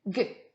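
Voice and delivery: G as a short hard "gue"; hard G sound. Shown as a demonstration. Teacher shows a child the sound, G as hard "gue". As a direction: say G as "gue", not the letter name. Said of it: "et tu fais".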